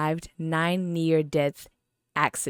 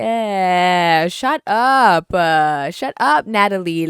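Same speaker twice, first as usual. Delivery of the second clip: exasperated outburst; 2 semitones higher, 8 dB louder, much slower than usual. Real, not acted. Reviewer loses patience with the character, loud. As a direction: cut her off in disgust. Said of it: "breaks off mocking, irritated".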